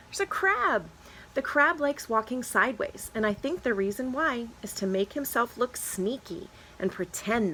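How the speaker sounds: lively picture-book read-aloud; reading to children. Acted. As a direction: read it to a class of kids. Reads picture book to class.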